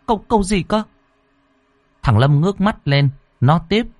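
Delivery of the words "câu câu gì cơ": high, faltering mother; flustered stammer. Acted. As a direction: caught off guard by her son's question. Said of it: "Cô Thao ấp úng". (giọng mẹ ấp úng, lúng túng)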